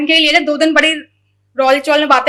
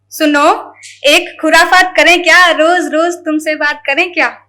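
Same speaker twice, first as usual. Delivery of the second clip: playful, teasing shayari; poetry recital. Acted. To a loved one, teasing shayari recital. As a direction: coax the listener with each सुनो. Playful poem addressed to someone.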